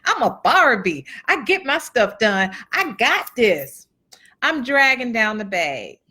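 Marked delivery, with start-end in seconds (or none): 0.1-3.9 indignant, defiant retold comeback; huffy and proud, rising in pitch on the challenge; with an attitude. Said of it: "with an attitude like".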